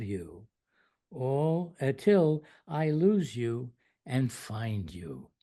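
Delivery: measured recital with pauses between lines; poem reading. Acted. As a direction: read a devotional poem aloud, phrase by phrase, with rising and falling emphasis. Reads own poem aloud to listeners.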